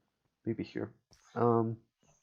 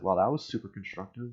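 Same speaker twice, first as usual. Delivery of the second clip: sarcastic; faster than usual. Retold or imitated. Sarcastic reply to useless complaint.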